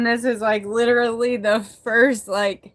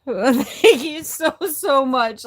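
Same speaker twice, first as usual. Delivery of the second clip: laughing thanks; 3 semitones higher, slower than usual. Real, not acted. Grateful, laughing through tears.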